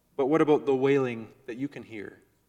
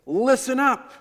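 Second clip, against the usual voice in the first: much higher and louder, barked command; strident shout; 11 semitones higher, 9 dB louder, slower than usual. Retold or imitated. Father pounding his fist yelling at noisy kids, shouting. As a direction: yell over the noise to get attention. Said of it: "stridently crying out, maybe clapping my hands".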